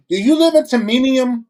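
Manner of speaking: "Timonium" with a stressed "MIN" in the middle; mispronounced Timonium. Retold or imitated. Comcast callers asking the worker where he lives, mispronounced Timonium. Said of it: "people was like".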